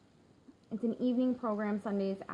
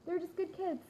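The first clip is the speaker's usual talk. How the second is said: near tears; 4 semitones higher than usual. Real, not acted. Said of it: "I'm gonna cry".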